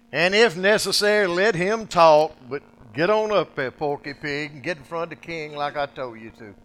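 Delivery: booming command. Acted. God ordering Moses onward, loud scolding. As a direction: command him like an exasperated boss.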